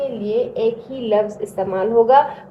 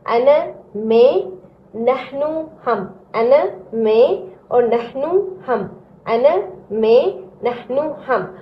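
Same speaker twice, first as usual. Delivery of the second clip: slow drill. Shown as a demonstration. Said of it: "एक बार फिर repeat करें".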